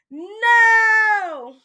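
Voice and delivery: high, loud, defiant shout; all yelled. A narrator's reading. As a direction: shout it together in refusal. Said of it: "all yelled".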